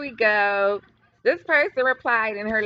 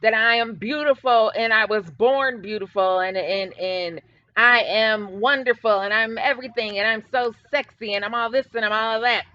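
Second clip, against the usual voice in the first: imitating someone endlessly praising herself; hammed-up self-admiration; mock boasting; 3 dB louder than usual. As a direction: run through the boasts in a mocking, hurried pile-up. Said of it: "who constantly says".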